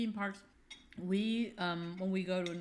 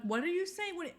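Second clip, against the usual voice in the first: exasperated; 11 semitones higher than usual. Retold or imitated. Confronting the driver via app.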